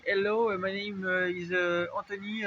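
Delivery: English with a French accent; hesitant self-introduction in French-accented English. Shown as a demonstration. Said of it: "vous pensez que ça fait français".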